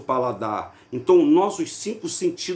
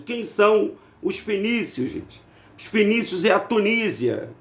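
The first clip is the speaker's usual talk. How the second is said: ordinary delivery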